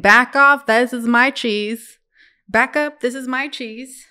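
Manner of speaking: loud, defiant squeak of a mouse guarding its cheese; mouse yelling. Acted. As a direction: shout it like a tiny mouse that won't back down. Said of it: "a mouse ... that's saying".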